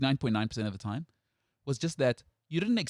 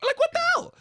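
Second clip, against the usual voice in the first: high burst of laughter into disbelief; laughing; 3 dB louder than usual. Real, not acted. Laughing at bizarre game.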